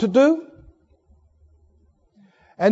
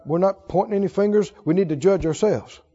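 normal talking voice

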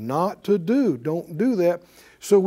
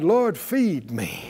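slow, low, lingering prayer line; slow prayer lead; 3 semitones lower, 3 dB quieter, much slower than usual. Shown as a demonstration. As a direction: lead the prayer slowly for them to echo. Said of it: "Say it out loud".

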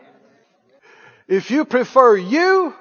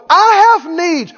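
selfish whine; 8 semitones higher, 5 dB louder, slower than usual. Retold or imitated. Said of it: "Somebody pipe up and go".

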